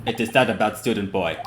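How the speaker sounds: lightly voiced Russian guard; a hint of a Russian accent, curt. Guard answering the investigators, light Russian accent. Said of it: "I might be trying to do their accent".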